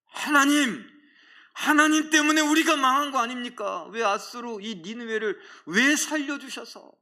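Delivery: high, loud cry of reproach; hammed-up prophet's outburst; acted angry protest. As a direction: cry out accusingly to God. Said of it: "더 화를 내지 않았을까요?".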